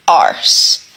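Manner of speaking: breathless whisper of the last word; whispered curse. Real, not acted. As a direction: drop to a bitter whisper. Frustrated aside.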